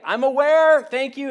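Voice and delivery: very loud, high exasperated yell; hammed-up sitcom outburst; George Costanza. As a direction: holler it back, stretched high and indignant. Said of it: "in my best George Costanza voice".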